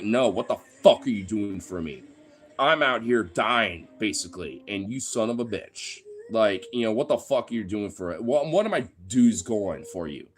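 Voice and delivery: imitating a fed-up worker yelling at the union reps; angry union member. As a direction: act out a mildly heated rant at the union. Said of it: "sometimes the union needs to hear you be fucking angry, pissed, spitting blood mad".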